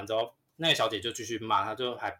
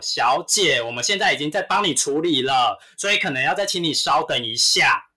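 firm and louder, staff to customer; raised voice; 2 semitones higher, 6 dB louder than usual. Retold or imitated. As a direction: speak up firmly but politely. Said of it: "有点拉高音量的跟他说". (提高音量、客气但坚定地说)

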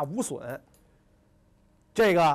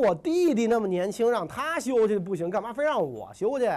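indignant protest; 5 semitones higher than usual. Acted. Shun told to fix the granary roof, indignant protest. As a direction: push back at an unfair chore.

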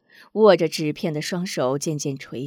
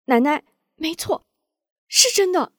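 much higher, earnest confirming; earnest girl; 10 semitones higher, 5 dB louder than usual. A narrator's reading. Han Jing confirms to Granny, high girlish voice. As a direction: nod and swear it's true. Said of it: "韩晶深深地点了点头".

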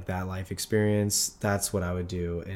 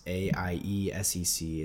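whispered. Real, not acted. Spelling out the acronym.

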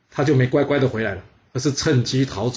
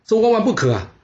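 higher, alarmed urgent begging; panicked plea to the king, pitched up; frightened pleading; 5 semitones higher than usual. Acted. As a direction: beg the lord not to go. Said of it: "两个吓得赶紧劝着齐景公说".

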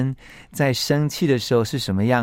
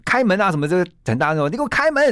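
retold angry yell; 6 semitones higher than usual. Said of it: "还在那边讲说".

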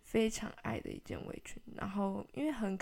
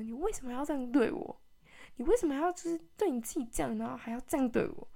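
a touch higher, pressing accusing questions; mom's angry outburst; 4 semitones higher than usual. Retold or imitated. Mom confronting dad over the ruined Mickey apron, mock angry. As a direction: voice mom's hurt fury, mildly acted. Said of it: "我妈就觉得".

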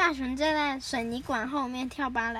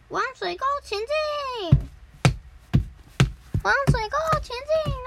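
commanding call; 11 semitones higher, 7 dB louder than usual. Acted. Nobita orders them into the ditch, commanding call. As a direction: call out the march high and long.

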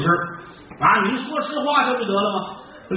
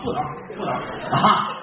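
laughing stutter. Retold or imitated. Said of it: "结巴乐了".

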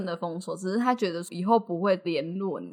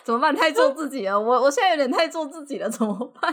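high, louder, half laughing worry; embarrassed laughing; 7 semitones higher, 4 dB louder than usual. Real, not acted. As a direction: fret while laughing.

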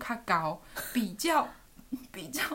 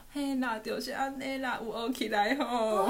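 put-on slow, approving old uncle; drawn-out praise like a satisfied teacher; pleased old teacher; slower than usual. Uncle praising her progress, slow and approving. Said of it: "他就，他说".

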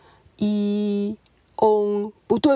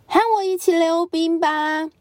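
high, bright greeting; cheerful tiger; 7 semitones higher than usual. Acted. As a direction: sing out a hello. Pig invites zebra.

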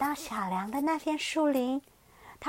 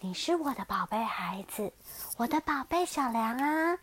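tender mother; 3 dB quieter than usual. Acted. Mother hugging crying Xiaoliang, soft and tender. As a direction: hold him close with your voice. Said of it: "妈妈紧紧搂着小梁说".

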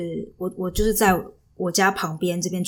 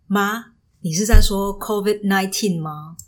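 startled realization; 5 dB louder than usual. Retold or imitated. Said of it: "我突然一惊".

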